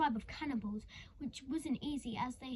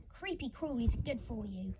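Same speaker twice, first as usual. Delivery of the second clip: mock chuckle. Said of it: "she would chuckle".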